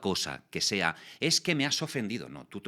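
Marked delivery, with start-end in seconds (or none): 1.2-2.3 higher, a touch whiny imitation; lightly mocking offended voice. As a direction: parody someone taking offence.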